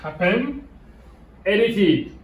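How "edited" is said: "Edited" stressed on the opening E; teacher's demo of "Edited", weight up front; stress on first syllable. Shown as a demonstration. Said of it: "Accent sur le premier".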